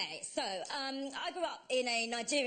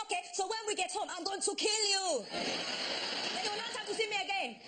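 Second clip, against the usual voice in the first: mock threatening auntie; 5 semitones higher than usual. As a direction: calmly promise doom to a child. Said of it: "She said".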